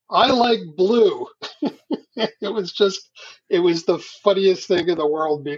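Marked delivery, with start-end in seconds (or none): 0.1-1.2 loud blurt, much higher pitch. Retelling how someone blurted into a break in a long conversation: retelling a loud blurt. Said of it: "blurts out in a loud voice for all to hear".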